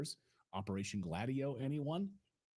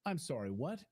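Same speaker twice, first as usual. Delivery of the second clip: higher, incredulous questions building; mock disbelief; 4 semitones higher than usual. Real, not acted. Host reacting to Zelensky calling loans grants, incredulous. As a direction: play it like you can't believe your ears.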